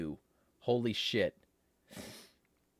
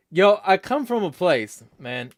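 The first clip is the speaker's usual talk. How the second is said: higher, louder street voice; street talk; 6 semitones higher, 7 dB louder than usual. Shown as a demonstration. Showing the chat he can do it, street talk. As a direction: slip playfully into street talk. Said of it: "I could start talking like this".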